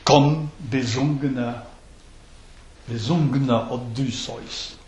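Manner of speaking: "Komm" and "besungener" hit hard at the start of each foot; stressed beats. Shown as a demonstration. Teacher repeats the verse to show where the accents fall. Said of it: "remplacer les longues par des syllabes accentuées".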